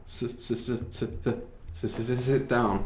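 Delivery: quick repeated s- before sit down; stutter. Shown as a demonstration. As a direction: stammer on s- s- then sit down. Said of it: "이거는 stuttering이에요".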